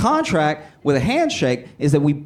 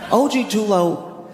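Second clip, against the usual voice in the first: slow and deliberate; 3 semitones higher, slower than usual. Shown as a demonstration. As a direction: lay out the name slowly. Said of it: "lo-, like an email".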